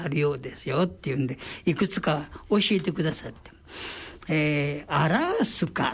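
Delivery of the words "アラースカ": アラースカ said with a long drawn ア-ラー in Nagoya style; Nagoya dialect word. Shown as a demonstration. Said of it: "って言いますね".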